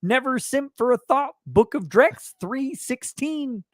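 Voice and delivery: put-on reading voice. Reads chat in put-on voice.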